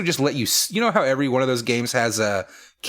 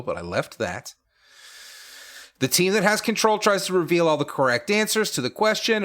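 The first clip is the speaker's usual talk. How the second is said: game show rules read. Acted. Reads game rules slowly.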